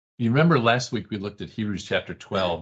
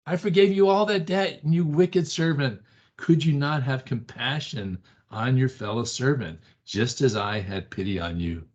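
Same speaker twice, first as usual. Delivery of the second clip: stern master rebuking; 5 semitones higher than usual. Acted. Pastor voicing God rebuking the wicked servant. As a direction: scold the servant, building then fading. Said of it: "And he says".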